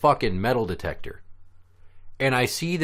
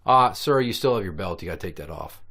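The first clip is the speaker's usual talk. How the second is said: polite request; 4 semitones lower than usual. Acted. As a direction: politely point it out, easing off at the end. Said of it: "instead of saying".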